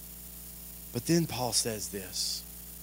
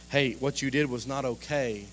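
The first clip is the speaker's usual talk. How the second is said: calm dad talk; 3 semitones lower, 5 dB quieter than usual. Retold or imitated. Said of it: "we teach that to our kids".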